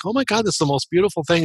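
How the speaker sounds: quick, high rush of wonder; awestruck gush. Retold or imitated. Soul overwhelmed at the tapestry, gushing in high awe. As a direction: blurt it out, overwhelmed by beauty.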